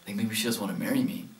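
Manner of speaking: hushed, worried inner voice, starting in a whisper; anxious whisper. Retold or imitated. Groom on the bridge doubting himself, in a worried hush. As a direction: breathe the panic out quietly. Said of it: "And I was like".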